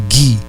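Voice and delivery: GUI with a hard G; hard G before I. Shown as a demonstration. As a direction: say "gui" with G as in gato, then I. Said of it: "você vai pronunciar".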